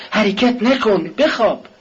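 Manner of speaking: high, slow, loud shout at her husband. Acted. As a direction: command him to lie still, full voice. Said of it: "کاترین فریاد زد".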